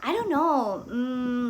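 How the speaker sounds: hesitant, noncommittal dodge trailing into a hum; indirect refusal. Shown as a demonstration. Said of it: "much more comfortable for me to say".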